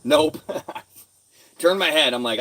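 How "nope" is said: punchy, louder "Nope" with a laugh. Retold or imitated. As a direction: bark the word "Nope" out loud. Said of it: "repeats it louder".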